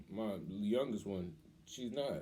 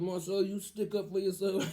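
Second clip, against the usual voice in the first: put-on higher, slow, his father's accent; Pops' accent; 9 semitones higher than usual. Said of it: "You with his accent".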